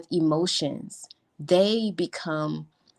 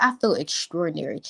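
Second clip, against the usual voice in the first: big extraordinary. Shown as a demonstration. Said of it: "Can we get".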